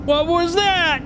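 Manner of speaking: high, slow, stunned asking; shocked disbelief. Real, not acted. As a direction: cry out in shock. Shocked after the crash.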